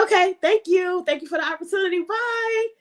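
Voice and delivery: light, high, easy thank-you; breezy calm reply. Retold or imitated. Answering the recruiter who just cut her, breezy and high. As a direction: brush it off cheerfully, unbothered.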